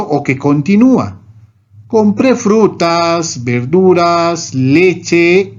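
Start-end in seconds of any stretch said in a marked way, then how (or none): 1.9-5.5 slow list left hanging open; trailing list. Shown as a demonstration. Teacher showing an unfinished list, slow and trailing. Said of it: "indicar que un enunciado esté incompleto".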